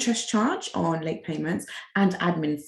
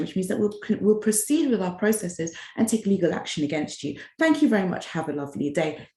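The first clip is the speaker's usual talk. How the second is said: very politely. Retold or imitated. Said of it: "very politely".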